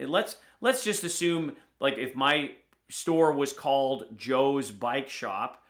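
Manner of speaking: ordinary talk, nothing marked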